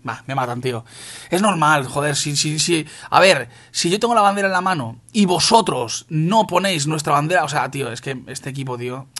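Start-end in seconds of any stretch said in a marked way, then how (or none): 1.3-7.4 loud, exasperated telling-off of teammates; enfado creciente. Real, not acted. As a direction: scold the team, getting angry and louder. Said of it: "ya me estoy enfadando". (regañando al equipo, cada vez más enfadado)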